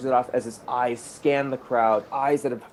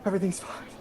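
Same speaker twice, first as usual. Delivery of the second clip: higher-pitched, relieved reassurance; acted tender relief, pitched up; anxious reassurance; 5 semitones higher, faster than usual. Acted reunion, reassuring crying lover.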